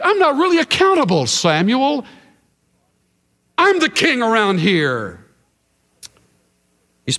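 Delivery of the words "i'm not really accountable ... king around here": lightly voiced, high and fast dodge; Saul's excuse. Preacher voicing Saul brushing off Samuel, lightly high and fast. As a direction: brush it off quickly like a proud king.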